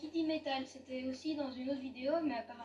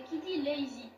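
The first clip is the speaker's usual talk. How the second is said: "lazy" in an English accent, lay-zee; 6 dB louder than usual. Shown as a demonstration. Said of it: "j'aime bien avec l'accent anglais".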